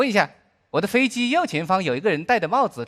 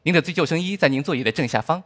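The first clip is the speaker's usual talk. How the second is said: flight attendant announcement; 4 semitones lower than usual. Acted. Cabin announcement continues.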